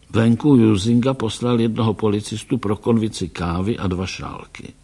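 ordinary delivery, nothing marked

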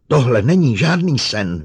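loud high outburst; loud high hysterical cry. Acted. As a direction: shout it, on the edge of hysteria. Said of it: "vykřikla".

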